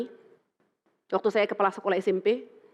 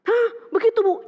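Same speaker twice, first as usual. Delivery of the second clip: put-on surprised child; 11 semitones higher, 5 dB louder than usual.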